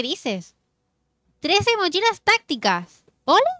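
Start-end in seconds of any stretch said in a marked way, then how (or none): 1.4-3.5 high, loud, slowly stretched amazement; drawn-out astonished cry; amazed exclamation. Real, not acted. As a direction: savour each word in disbelief. Amazed at thirteen backpacks.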